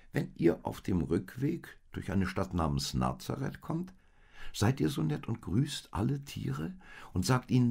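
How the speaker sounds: a humble donkey proudly praising his kind masters; lightly voiced eager donkey. A narrator's reading. Donkey telling the camels about his good masters, lightly voiced and eager.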